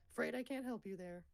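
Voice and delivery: put-on voice. Mock voice, then repeated plainly.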